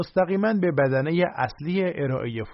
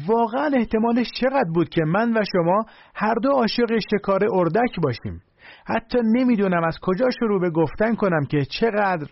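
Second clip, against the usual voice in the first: higher, louder, gushing mock amazement; hammed-up fake excitement, a bit louder and higher; fake loud surprise; 5 semitones higher than usual. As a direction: overplay delighted astonishment to fake rapport. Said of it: "با صدای بلند فریاد زد".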